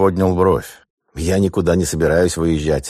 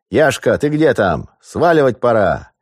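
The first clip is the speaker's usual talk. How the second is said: calling out; 7 semitones higher, 4 dB louder than usual. Acted. Robber calls from another room.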